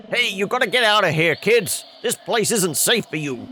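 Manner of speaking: lightly voiced guard warning kids off; stern guard. Guard shooing kids out of the cemetery, stern warning.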